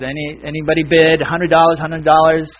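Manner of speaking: a hint of an auctioneer's patter. Auctioneer ignores the heckler and asks for bids, rattled-off patter. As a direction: lightly imitate an auctioneer chanting for bids. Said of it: "You know how they do, really fast".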